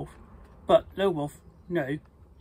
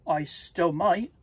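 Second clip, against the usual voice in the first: slow, a touch of sadness; reluctant, mildly sad reply; sadly; 3 dB louder than usual. Acted. Lil Wolf tells his friend the pig, mildly sad and slow. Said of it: "said Lil Wolf sadly".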